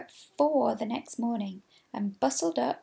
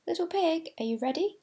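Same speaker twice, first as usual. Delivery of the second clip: sly wolf call; 7 semitones higher than usual. A narrator's reading. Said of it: "he said".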